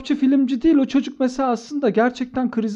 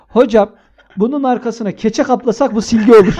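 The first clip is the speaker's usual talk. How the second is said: laughing; 2 semitones higher, 6 dB louder than usual. Retold or imitated. Retelling kid's joke, laughing.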